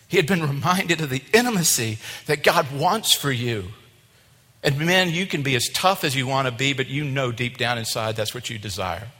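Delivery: punched, impassioned sermon delivery; preaching. Real, not acted. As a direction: drive the point home to the congregation. Preaches with force.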